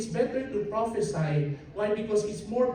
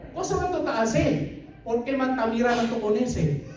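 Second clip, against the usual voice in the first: mock exasperated Chabacano; 3 semitones higher than usual. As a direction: tease him for just staring.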